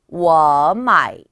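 워 마이 joined, 워 loud and rising into a dipping 마이; second-plus-third tone demo. Shown as a demonstration. Teacher repeats the correct pattern, rising tone then third tone. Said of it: "두 번만 따라 읽어보실게요".

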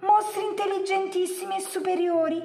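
high, fawning little creature voice; pleading yellow monster. A narrator's reading. Yellow monster flatters two monsters, high and obsequious. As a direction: flatter them in a high-pitched voice. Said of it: "e disse".

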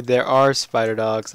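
a burst of laughter on the reveal; amused disbelief, laughing. Real, not acted. Spots the spider dogs.

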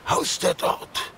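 hushed, unvoiced whisper; awed whisper. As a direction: whisper it like a dark legend. Old man tells of Ymir's lair.

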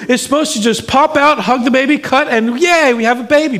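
high, rushed, frantic pleading; panicked inner plea. Retold or imitated. Husband fearing for his wife in surgery, high frantic voice. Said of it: "I'm like".

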